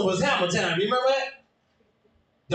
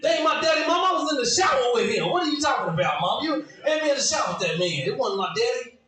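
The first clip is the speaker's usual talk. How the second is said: put-on 1 kid protesting; 4 semitones higher than usual. Kid arguing with mom.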